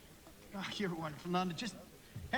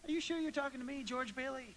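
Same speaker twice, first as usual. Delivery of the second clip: laughing disbelief; 5 semitones higher than usual. Acted.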